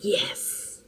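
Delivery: soft whispered earnest yes; husband's hushed earnest yes; dead serious. Retold or imitated. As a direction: say it quietly, all serious. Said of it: "All serious".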